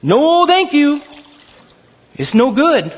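high, light no-thank-you voice; Paul turning down the offer, hammed up; mock polite refusal. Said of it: "'Cause Paul says".

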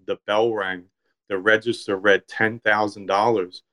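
measured, even literary narration; story reading. A narrator's reading. Author reading his deli story to a listener, story reading. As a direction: read your own short story aloud.

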